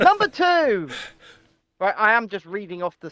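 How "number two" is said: raised-pitch, proclaimed list heading; mock-grand announcement; Rishi Sunak. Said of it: "let me do my best Rishi impression".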